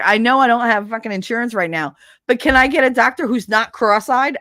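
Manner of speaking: loud, snippy patient rant; bitchy complaint. Retold or imitated. Drugged patient sniping at staff, loud. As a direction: complain rudely and loudly. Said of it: "I was such a bitch".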